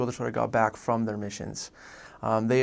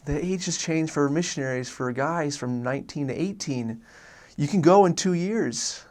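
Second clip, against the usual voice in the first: imitating an excited mom, pitched up; mom freaking out; 3 semitones higher than usual. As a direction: relay big news as a thrilled mom. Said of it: "she was, like, freaking out".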